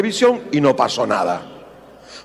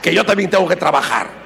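louder, higher scolding; wife nagging husband, mock shrill scold; 4 semitones higher, 4 dB louder than usual. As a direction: scold him about the laundry. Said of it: "ahora se hizo más gargantosa".

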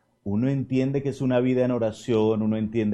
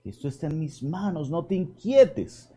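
reassuring; 6 semitones higher than usual. Acted. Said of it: "Padre José Andrés, calma".

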